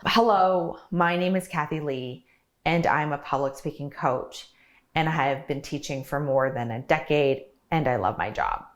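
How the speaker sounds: repetitive sing-song cadence, each phrase chopped apart and falling the same way; robotic monotone cadence. Shown as a demonstration. Coach demonstrates an exaggerated bad example for viewers, robotic cadence. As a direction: recite it mechanically, every phrase in one identical pattern. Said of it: "this is an exaggerated example".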